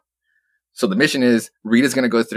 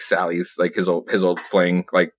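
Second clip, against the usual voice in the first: ordinary delivery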